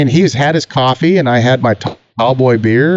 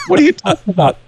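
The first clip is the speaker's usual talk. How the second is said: incredulous shout; faster than usual. Retold or imitated. Tire guy mocking the speaker.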